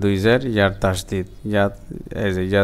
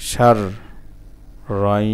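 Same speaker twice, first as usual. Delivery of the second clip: syllable by syllable; faster than usual. Shown as a demonstration. Teacher breaking a word down for learners, syllable by syllable. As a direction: hold and separate each syllable.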